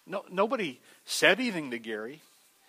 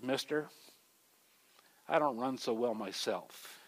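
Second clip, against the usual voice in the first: softer, slow and simple; quiet boy; 3 semitones lower, 8 dB quieter than usual. Retold or imitated. Boy quietly tells store owner, soft and slow. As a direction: let the line land gently. Boy reveals his leg brace.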